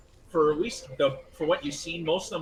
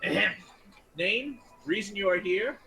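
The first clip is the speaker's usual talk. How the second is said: small gnome voice; 5 semitones higher than usual. Acted. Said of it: "hear a smaller voice go".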